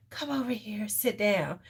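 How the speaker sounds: a hint of a stern dom; firm quiet command. Shown as a demonstration. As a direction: calmly tell them to sit. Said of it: "there's a firmness to the conversation".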